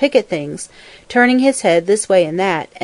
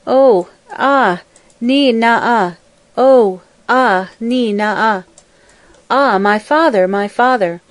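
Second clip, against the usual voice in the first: mourning wail; 3 semitones higher, slower than usual. A narrator's reading. Daughter mourning her trampled father, keening lament. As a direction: wail over your dead father. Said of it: "mourned in sorrow".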